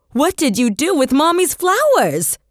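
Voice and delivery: put-on a mother losing patience with her toddler. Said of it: "She raised her voice".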